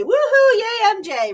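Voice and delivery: very high, loud woohoo; high loud celebratory yay; party cheer. Retold or imitated.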